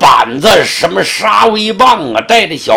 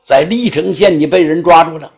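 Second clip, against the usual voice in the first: indignant magistrate; 4 semitones higher than usual. Acted. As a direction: throw his denial back at him in outrage.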